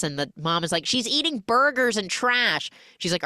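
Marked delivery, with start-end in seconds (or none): 0.9-2.7 put-on high tattling mom with a Serbian accent. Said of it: "Serbian accent".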